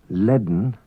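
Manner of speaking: "Leaden" with a D sounded just before the N. Shown as a demonstration. Teacher gives another unwritten-D example, D before N. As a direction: say "Leaden" as led-n, D running into N. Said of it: "An unwritten D is pronounced before N".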